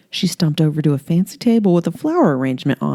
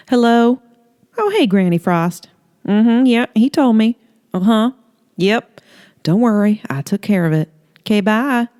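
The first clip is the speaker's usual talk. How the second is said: higher, bright chatty phone talk; chirpy phone voice; 7 semitones higher, 4 dB louder than usual. Acted. Holly chatting with Granny Frost on the phone, chirpy. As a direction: breeze through the call.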